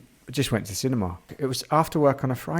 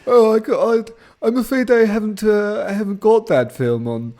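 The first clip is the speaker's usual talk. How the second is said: high, loud, hesitant posh pirate; pirate impression; 7 semitones higher, 5 dB louder than usual. Pirate apologising about his film, comic pirate voice. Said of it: "brilliant impression of a pirate".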